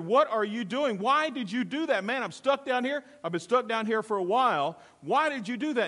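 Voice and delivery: can't believe he just jumped in; stuck man baffled that the rescuer jumped in too; surprised disbelief. Acted. Man in hole sees rescuer jump.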